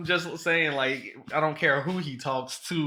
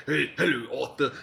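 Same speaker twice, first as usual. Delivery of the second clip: put-on British gangster accent; 4 semitones lower than usual. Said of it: "twelve packs a day voices".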